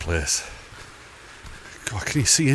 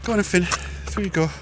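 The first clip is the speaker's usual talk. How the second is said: coaxing dog voice; 11 semitones higher than usual. Real, not acted. Talking to the dog.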